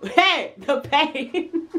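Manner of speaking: high, laughing mock threat; sing-song menace with laughs; threatening mum. Mimicking parent's threat.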